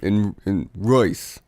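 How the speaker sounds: slow, badly faked Russian accent. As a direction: attempt a Russian accent, dragging the vowel. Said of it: "I'll do one too".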